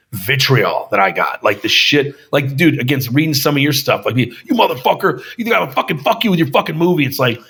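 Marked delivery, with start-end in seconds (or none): 4.2-7.1 imitating angry fans. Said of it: "they're so pissed off".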